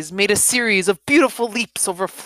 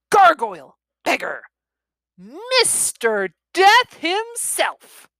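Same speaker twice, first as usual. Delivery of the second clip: put-on high, loud kids yelling names; gleeful shouting; 10 semitones higher, 6 dB louder, slower than usual. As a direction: shout with Halloween glee, stretching the last name slowly. Boys shouting costume names.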